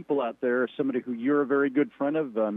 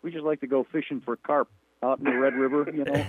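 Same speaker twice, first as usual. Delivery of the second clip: 1 mock Minnesota accent; much faster than usual. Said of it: "up in Minnesota".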